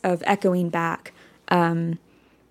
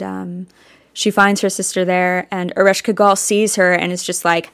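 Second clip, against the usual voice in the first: usual speaking voice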